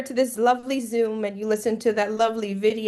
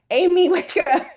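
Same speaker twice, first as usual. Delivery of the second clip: teasing laugh; 5 semitones higher, 5 dB louder than usual. Real, not acted. Teasing student awake.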